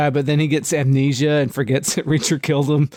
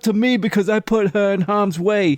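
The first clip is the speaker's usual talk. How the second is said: imitating a bad Boston accent, a bit higher; mock Boston accent; 6 semitones higher than usual. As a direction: lampoon a British actress faking Boston. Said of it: "She thinks she's doing a Boston accent".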